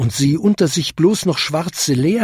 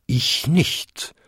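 short bonged denial, raised pitch; higher-pitched bell denial; second-biggest bell; 4 semitones higher than usual. A narrator's reading. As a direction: answer like a big bell bonging. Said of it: "bummte die zweitgrößte".

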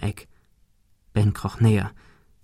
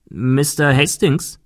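eerie butler voice; 3 semitones higher, slower than usual. Acted. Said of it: "sagte eine Stimme hinter ihm".

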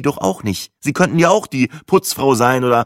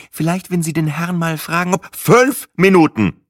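lauter, langsamer Ausruf; schnauben; 5 semitones higher than usual. A narrator's reading. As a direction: schnaubend und laut, Wort für Wort. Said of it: "schnaubte ich". (laut und langsam schnaubend die Frau Lauer anfahren)

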